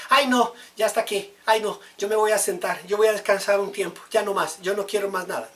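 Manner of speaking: high, loud whining church member; mock the member who gives up, high and loud; whiny quitter. Preacher mocks a churchgoer quitting, high whiny. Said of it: "la emoción dice".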